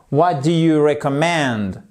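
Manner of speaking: "recommend" stressed on MEND; "recommend" with main weight on the last syllable; stress on final syllable. Shown as a demonstration. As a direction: lean on the end of "recommend". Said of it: "notre accent tonique qui est juste là".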